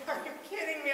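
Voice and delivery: high, incredulous, pulled back in volume; can't believe what you're hearing; reliving the frustration at the mechanic; exasperated disbelief. Retold or imitated. Frustrated at second Sears delay.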